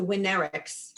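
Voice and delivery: Winnerics with the accent on the proper syllable; corrected pronunciation. Shown as a demonstration. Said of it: "accent on the wrong syllable".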